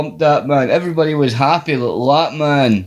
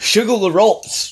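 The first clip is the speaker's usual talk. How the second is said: Warrior voice; 8 semitones higher than usual. Retold or imitated. Warrior impression riffing.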